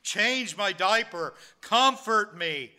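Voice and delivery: put-on crying baby. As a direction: voice a needy infant's insistent cries, without real sobbing. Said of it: "and so they're crying".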